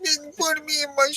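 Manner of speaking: put-on high, fast baby voice. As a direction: talk like a whiny baby. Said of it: "doing like a baby voice".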